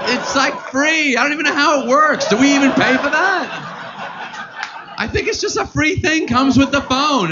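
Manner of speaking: high, baffled, lightly mocking; mock clueless. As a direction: play dumb about how it works. Mock clueless about Uber.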